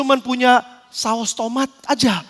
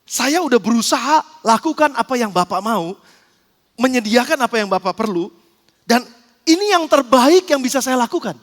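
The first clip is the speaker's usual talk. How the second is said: measured, courteous service voice; respectful, professional; 2 semitones lower than usual. Acted. Flight attendant explaining her best effort to a passenger, respectful and professional. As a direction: present it formally, with great respect. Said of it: "datang dengan sangat hormat, dengan sangat profesional".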